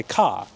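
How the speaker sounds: "car" as "cah", no R; New York "car" without R; dropped R. Shown as a demonstration. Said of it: "They drop the R sound".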